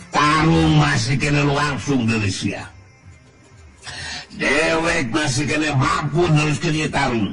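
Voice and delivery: villain's challenge. A narrator's reading. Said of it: "neuteub seukeut kanu dilawan tos nyarita". (nangtang musuh, sora ngaluhuran)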